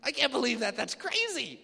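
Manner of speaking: loud, high mock shock; hammed-up oh my God; shocked exclamation. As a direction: gush over the gossip. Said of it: "You say".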